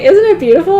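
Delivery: high, loud and gushing; dreamy high voice. Retold or imitated. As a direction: gush with starry eyes. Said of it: "if I'm saying".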